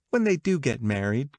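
high, lively gossiping woman; gossipy Catherine. Acted. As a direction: pitch it up like eager party gossip.

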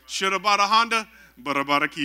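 a punchline reprise of fake tongues; toned-down faked tongues. Preacher repeating friend's faked tongues, toned-down mock chant.

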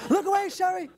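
called-out warning. Pretend. Comedian warns guest off his stolen jacket, calling out. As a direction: call out in mock urgency.

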